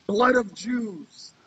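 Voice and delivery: the comedian delivering the shocking answer, slow and deliberate; slow punchline. Retold or imitated. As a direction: drag the punchline out very slowly. Punchline of retold joke.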